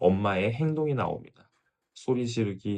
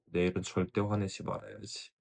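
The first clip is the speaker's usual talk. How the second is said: much softer, tired resolve; quiet night vow; 7 dB quieter than usual. Retold or imitated. Mother resolving again that night, soft and weary. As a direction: murmur the promise to yourself at night. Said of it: "그리고 그날 밤 다시 결심하죠".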